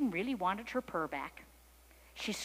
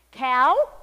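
loud, raised kitten call; 4 semitones higher, 16 dB louder than usual. A narrator's reading. Kitten in the tree hails the cow, calling out loudly. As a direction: call out to a big animal.

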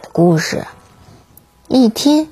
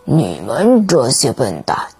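hammed-up angry king voice; angry fish king; 2 semitones lower than usual. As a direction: scold them like a grumpy sea king. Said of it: "渔王生气地说".

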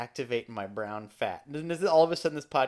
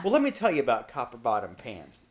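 salesy TV pitchman voice, a bit louder; infomercial voice; 5 dB louder than usual. Retold or imitated. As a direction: pitch it like a late-night ad host. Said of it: "it sounded like an infomercial".

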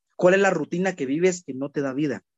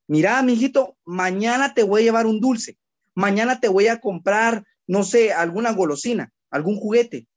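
put-on higher, sweet voice promising a child a treat; 5 semitones higher than usual. Parent promising a grandchild a sweet, sweetly higher. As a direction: coax a little one with a promise. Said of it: "Díganle a su hijo".

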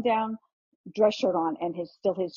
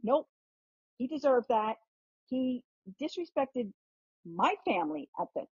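imitating mother's indignant defiance, pitched higher; 5 semitones higher than usual. Mother defends throwing the drink at the christening, mock indignant. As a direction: play the unrepentant mother, refusing to apologize, pitched up. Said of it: "she was indignant".

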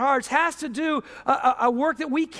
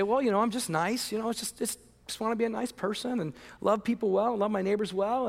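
mock modest; 2 semitones lower, 6 dB quieter than usual. Mock modest nice person.

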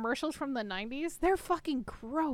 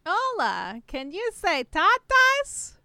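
put-on high, loud, slow kids'-show host; mock cartoon teacher asking viewers to repeat; Dora; 6 semitones higher, 7 dB louder, slower than usual. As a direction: prompt young viewers, drawing the words out.

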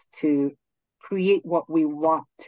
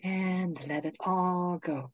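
guided meditation; 4 dB quieter than usual. Acted. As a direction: ease them gently into stillness.

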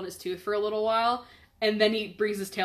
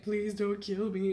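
mock crying plea; 3 dB quieter, slower than usual. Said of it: "crying and being like".

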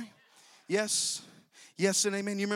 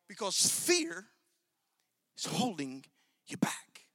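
hushed intensity; 4 dB quieter, slower than usual. Acted. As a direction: let the line fade to a whisper. Quiet climax of the fear point.

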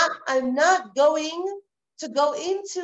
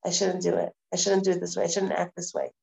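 quiet self-reflection; 5 semitones lower than usual. Retold or imitated. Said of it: "and say".

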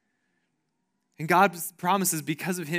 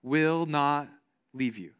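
reassuring; 3 semitones lower, much slower than usual. Retold or imitated. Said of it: "He's like".

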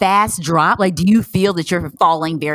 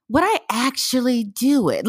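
laughing self-doubt; 7 semitones higher than usual. Retold or imitated. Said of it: "Then I'm like".

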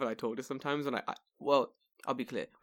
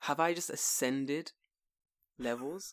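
brain computing. Retold or imitated. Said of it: "my brain was like".

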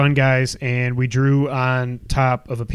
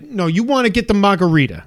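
imitated New Yorker, higher-pitched; New York accent; 5 semitones higher than usual. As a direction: tell them what to get in a mock New York accent. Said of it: "This is how he talks".

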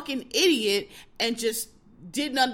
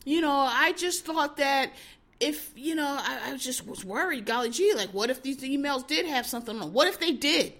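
mocking Comey; 3 semitones higher than usual. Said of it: "and he was like".

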